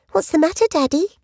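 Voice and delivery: put-on little girl. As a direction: ask sweetly, all mock concern. Child voiced in the story.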